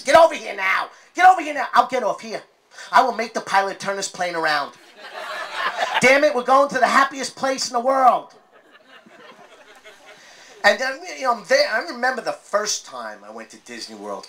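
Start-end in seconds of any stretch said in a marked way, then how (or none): 0.0-8.3 high, loud parental yell; yelling at the kids. Acted. Dad screaming at his kids on the Disney trip, loud and high. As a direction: bellow at the kids to get over here. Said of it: "I'm yelling at the kids".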